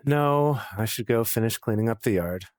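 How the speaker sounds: sighing, mildly deflated refusal; deflated, giving up. Acted. Jace's invitation is rejected, deflated and giving up. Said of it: "just kind of deflating and just kind of giving up".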